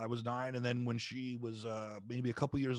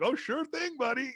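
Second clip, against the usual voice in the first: much higher, louder, breezy buddy voice; cheery wrestlers; 6 dB louder than usual. Retold or imitated. Wrestlers agreeing to let the fan take a bump, high and breezy. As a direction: toss it off like a friendly wrestler. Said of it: "and they're like".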